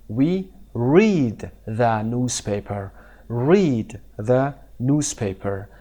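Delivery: slow, careful teacher reading; slow model sentence. Shown as a demonstration. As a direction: say it slowly for students to repeat. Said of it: "teacher models sentence".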